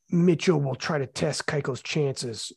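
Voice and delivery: slow, measured poetic line; mock poetic. Shown as a demonstration. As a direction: recite it like a would-be poet. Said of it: "I try to do it as, like, poetic".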